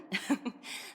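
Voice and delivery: short, soft laugh; breathy little laugh; amused chuckle. Acted. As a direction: chuckle lightly at the wording. Amused at formal wording.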